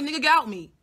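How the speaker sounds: retold blunt order. Telling him to get out, loud emphatic retold order. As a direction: order him out loudly and firmly. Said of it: "I literally was like".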